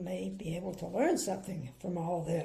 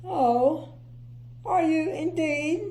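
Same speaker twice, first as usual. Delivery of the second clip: higher, sniffy disbelief; 8 semitones higher, 7 dB louder, slower than usual. Acted. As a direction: sniff it back at Mister Happy.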